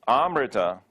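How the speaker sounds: AMRITA starting on a long open ah; long initial a. Shown as a demonstration. Teacher showing the mistaken word for immortality, long initial a. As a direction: say AMRITA as AAM-ri-ta, first vowel held. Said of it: "because the prefix a".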